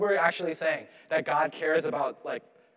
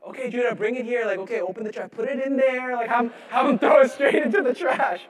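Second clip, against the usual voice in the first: mock tossing it out; 6 semitones higher, 5 dB louder than usual. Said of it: "if it's about the value".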